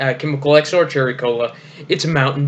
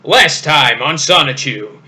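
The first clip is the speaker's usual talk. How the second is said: dramatic announcer voice; 4 dB louder than usual. Shown as a demonstration. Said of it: "I got the perfect voice for it".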